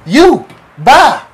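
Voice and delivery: high, loud send-off; acted-out curt goodbye; pointed dismissal. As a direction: dismiss them with two loud, high words. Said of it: "I was like".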